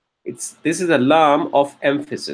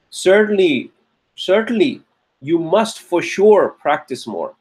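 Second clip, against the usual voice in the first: earnest teacher; 2 semitones higher than usual. Retold or imitated. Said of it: "you're talking to a teacher".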